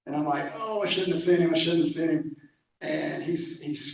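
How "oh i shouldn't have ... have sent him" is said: louder, mildly acted self-reproach; replayed inner worry, pushed a bit louder; worried. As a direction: retell a worried moment of regret. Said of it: "I'm kinda worried".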